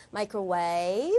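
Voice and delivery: "microwave" ending on a rise; drawn-out "microwave", pitch climbing at the end; rising list item. Shown as a demonstration. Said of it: "올라가지고".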